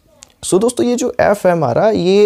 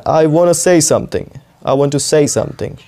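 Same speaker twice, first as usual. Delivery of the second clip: slow example; much slower than usual. Shown as a demonstration. Teacher slowly models say for students. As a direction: say stretched out as sei, slow. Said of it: "जैसे आप कहते हैं ना".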